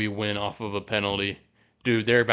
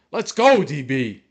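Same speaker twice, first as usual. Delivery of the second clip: real excited shout; 3 semitones higher, 7 dB louder, slower than usual. Real, not acted. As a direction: yell it in celebration. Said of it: "blowing up the mic".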